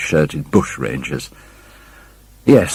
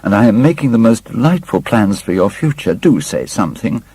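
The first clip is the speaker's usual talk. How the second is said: eager plans; 6 semitones higher than usual. Acted. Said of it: "cried Sybil".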